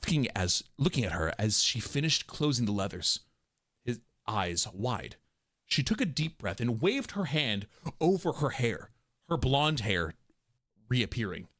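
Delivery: low, measured narrator voice; story narration. A narrator's reading. Narrator describing her changing appearance, low measured storytelling. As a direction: read it low, with pauses between phrases. Reads the script's narration, first take.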